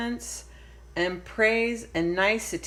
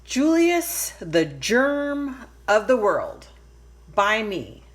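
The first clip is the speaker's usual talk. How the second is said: grand announcement; 3 semitones higher, 4 dB louder than usual. Acted. Lily announces her story loudly.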